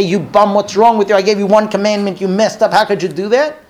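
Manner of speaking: hammed-up scolding from above; mock angry God. Imagined God thundering at Adam, mock furious rebuke. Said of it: "appear with lightning and thunder".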